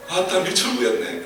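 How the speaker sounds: Jeolla dialect sleep-talk. Retold or imitated. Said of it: "사투리를 쓰면서 잠꼬대를 하더라는".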